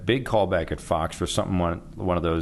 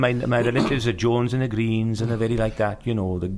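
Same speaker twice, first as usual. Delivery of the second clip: sing-song Welsh; 4 semitones higher than usual. Shown as a demonstration. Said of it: "Very sing-songy".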